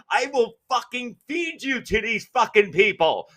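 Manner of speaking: hammed-up rant replaying a car fight; retold screaming threat. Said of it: "I'm screaming in the car".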